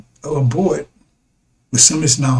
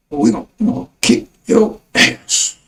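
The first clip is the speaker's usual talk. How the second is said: breathy whispered threat, no voice at all; whispered menace from a mock tough guy; menacing whisper; 2 semitones higher than usual. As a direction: hiss the threat like a secret warning. Voicing Iran's threat.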